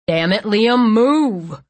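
loud, urgent roar. Acted. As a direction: bark the order over the chaos. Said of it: "Cole roared".

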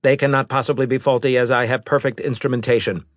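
fast, cold robot voice; a hint of a machine envoy; lightly voiced robot.

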